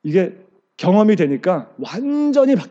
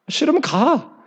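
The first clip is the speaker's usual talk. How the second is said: curt master; 6 semitones higher, slower than usual. Retold or imitated. Kung fu master dismisses complaining disciple.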